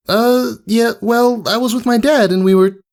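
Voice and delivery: high, shy little filly; small admiring voice; lightly voiced filly. Scootaloo answering the mare, shy filly voice.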